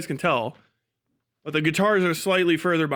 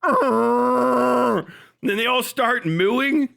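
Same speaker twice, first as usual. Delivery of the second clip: laughing; 3 semitones higher, 3 dB louder, much slower than usual. Real, not acted. Cracking up at his own joke.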